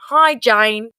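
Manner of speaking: high, slow fake-ill phone voice; hammed-up poorly voice to fool the boss; a partier faking a cold to his boss, mock sick voice; put-on sick voice. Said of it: "and then his voice went".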